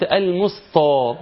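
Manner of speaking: drawn-out المسطى with a dark emphatic t; heavy ta. Retold or imitated. Teacher quoting a student's error, heavy ta. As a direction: weigh down the t in المسطى. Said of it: "بالطاء".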